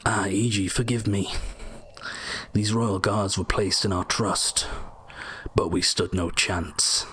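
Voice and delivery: slow, lightly voiced ghost; random ghost voice. Player voicing a ghost he came across, lightly acted slow lament. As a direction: give the ghost a slow, measured line. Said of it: "I'll just do a random voice".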